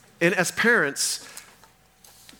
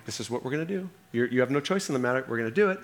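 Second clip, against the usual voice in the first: even, steady, soft-spoken firmness; calm swim coach insisting to a bawling kid; 3 dB quieter, much faster than usual. Retold or imitated. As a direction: keep it level and unbothered, no give at all. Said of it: "so calm".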